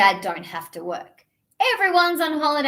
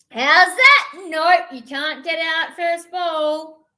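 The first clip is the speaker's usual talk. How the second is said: cricket appeal; 4 semitones higher, 6 dB louder, slower than usual. Acted.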